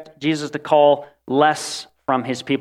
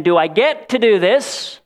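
eager question; 4 semitones higher, slower than usual. Shown as a demonstration. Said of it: "There is a strong difference between saying".

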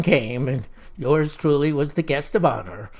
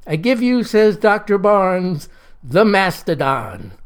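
big, slow unveiling; grand announcement; slower than usual. Acted. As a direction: present it like a showman.

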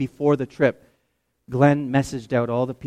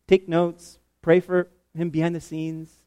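ordinary talk, nothing marked

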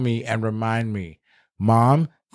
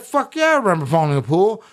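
much higher, fast, eager retold reply; excited yes; 6 semitones higher, faster than usual. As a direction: blurt it out, thrilled to remember. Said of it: "And I was like".

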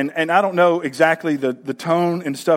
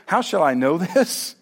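mock the doubtful question with a lift at the end; a touch of sarcastic mimicry; mocking echo. Angel mimicking doubting Zacharias, mildly mocking. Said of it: "and all you say is".

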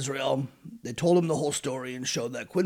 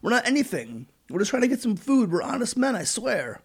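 mock pleading; 7 semitones higher than usual. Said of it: "they pleaded".

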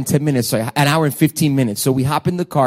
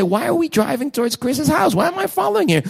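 anguished question; 8 semitones higher than usual. Retold or imitated. Anguished pastor questioning wife.

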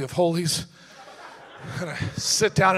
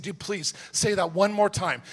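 pleading joke; slower than usual. Retold or imitated. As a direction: build it up to a hopeful punchline. Begging evangelist to refuse again.

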